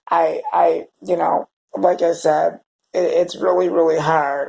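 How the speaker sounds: struggling through the words while crying; real crying. Real, not acted. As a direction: voice cracking with real tears. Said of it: "Now I'm starting to cry again".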